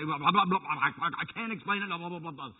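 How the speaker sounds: mocking gibberish. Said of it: "throw it up, and say".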